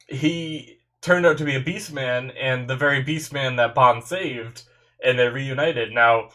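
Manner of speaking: stuffy nose voice; talking through a blocked nose. Real, not acted. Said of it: "I don't know why I'm so stuffy tonight".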